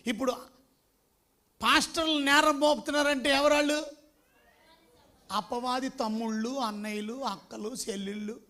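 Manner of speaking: ordinary talk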